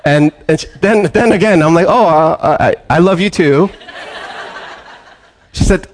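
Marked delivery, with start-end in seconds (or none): 1.9-3.7 flustered laugh. Retold or imitated. Pastor's flustered reply to her.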